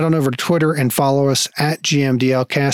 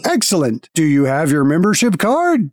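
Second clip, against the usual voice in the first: guild automaton; 3 semitones higher than usual. Acted. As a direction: speak like a polite machine at a desk.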